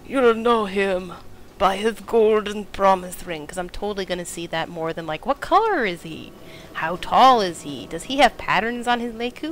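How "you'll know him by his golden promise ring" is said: slow, louder mocking parrot; mocking quote. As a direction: repeat it back with slow scorn. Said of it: "that's not really the best physical description".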